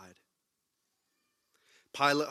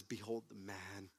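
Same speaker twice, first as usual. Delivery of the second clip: Pilate pleading; 4 semitones lower, 10 dB quieter than usual. Retold or imitated. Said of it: "He says".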